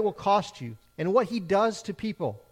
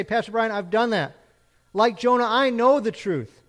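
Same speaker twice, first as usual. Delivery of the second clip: a louder, higher, self-assured listener; smug churchgoer; 3 semitones higher, 5 dB louder than usual. Retold or imitated. Congregant answering the pastor, lightly voiced and self-assured. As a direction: speak up like someone sure they're already saved. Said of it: "Maybe you can say".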